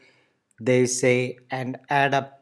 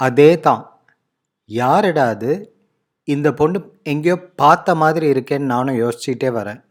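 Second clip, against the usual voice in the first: emphatic reply; 4 dB louder, much faster than usual. Acted. Acted reply in dialogue.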